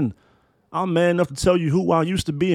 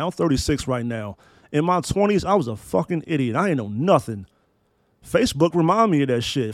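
ordinary delivery

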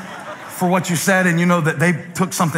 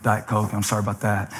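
lower, fading softer and softer, quickening; embarrassed apology trailing off to almost nothing; sheepish apology; 10 semitones lower, 6 dB quieter than usual. Retold or imitated. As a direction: apologize meekly to the young server. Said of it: "I'm like".

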